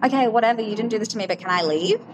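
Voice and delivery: dismissive concession, then asking to go; retold exasperation. Patient answering the doctor who won't let her go, mildly exasperated.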